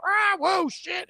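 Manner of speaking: sudden high startled yelp; mock driver's startled cry. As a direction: jump as if someone stepped out in front of you. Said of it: "everybody's like".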